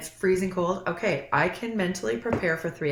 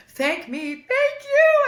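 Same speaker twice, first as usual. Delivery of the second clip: high, tearful and overwhelmed; choked-up disbelief; 7 dB louder, much slower than usual. Retold or imitated. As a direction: blurt it as tears break through. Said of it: "I was, like, so emotional".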